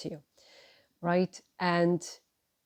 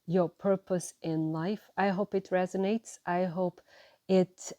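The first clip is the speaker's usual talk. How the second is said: usual speaking voice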